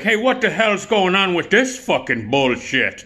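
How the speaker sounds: high, slow, brash put-on voice; Joe Donatello. Buddy confronts the guy who spilled his drink, brash impression. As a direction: draw out the outraged complaint up high. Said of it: "That's the way Joe talked".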